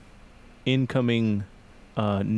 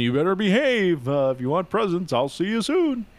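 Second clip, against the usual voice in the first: lightly voiced Santa, pitched up and lilting; mock Santa warning, higher at the close; Santa hotline recording; 5 semitones higher than usual. Santa hotline recording telling a kid to behave, lightly voiced. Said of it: "just a little recording and just tells him".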